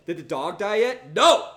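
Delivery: sudden high, loud cry of no; alarmed no. Real, not acted. Worried for the dog Poochie, alarmed shout.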